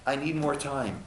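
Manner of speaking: soft, mildly pleading soul; understated acted plea; begging. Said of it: "Our soul begs".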